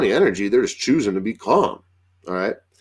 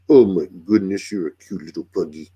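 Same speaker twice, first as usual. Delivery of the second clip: cooing to a pet; 4 semitones lower than usual. Real, not acted. Cooing to his own pug.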